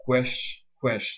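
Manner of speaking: "Quesh" as a strong, stressed syllable. Shown as a demonstration. Teacher showing a strong syllable, "quesh" fully stressed. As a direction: hit "quesh" with full stress. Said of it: "c'est une syllabe qui est forte".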